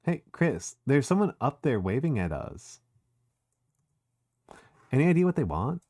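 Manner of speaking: put-on valley girl Susie telling Chris to lead. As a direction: play a sassy Valley Girl bossing a friend. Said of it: "Valley Girl Susie's really funny".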